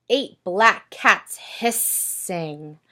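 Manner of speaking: slow, hushed spooky read; a touch of creeping cat menace. Acted. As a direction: stretch it out to spook the class. Cats hissing in counting book.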